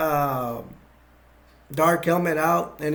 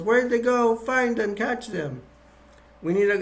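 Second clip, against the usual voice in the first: imitating a demanding boss; 6 semitones higher than usual. Dark Helmet demands pursuit.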